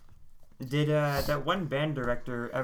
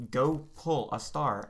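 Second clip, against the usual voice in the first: slow teacher order; slower than usual. Retold or imitated. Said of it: "And she was like".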